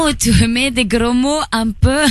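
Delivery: put-on playful Italian accent, stretched words. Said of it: "avec l'accent un peu italien".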